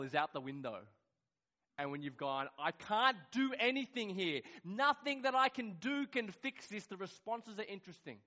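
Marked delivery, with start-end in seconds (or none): 2.6-6.9 helpless exclamation. Retold or imitated. Acted helpless cry of lost control.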